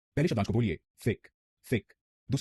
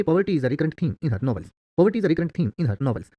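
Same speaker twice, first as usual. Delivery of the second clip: slow, clear English example sentence; slow dictation; 4 semitones higher, 5 dB louder, much slower than usual. Shown as a demonstration. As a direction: read it out slowly for learners. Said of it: "तो आप कहेंगे".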